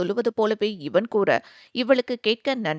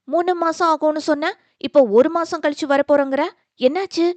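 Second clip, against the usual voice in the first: higher, louder, eager asking; eager question; 6 semitones higher, 6 dB louder than usual. Acted. Sister eagerly asking why he comes home early, higher and louder. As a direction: pounce on the news. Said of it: "ஆர்வத்துடன் கேட்டாள்".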